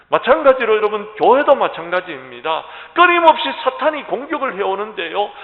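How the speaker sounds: high, loud, driving sermon delivery; full-force preaching. Real, not acted. Pastor urging the congregation to unite against attack, forceful preaching.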